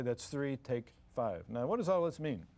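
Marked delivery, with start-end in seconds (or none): 0.0-1.5 calm count. Shown as a demonstration. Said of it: "You say".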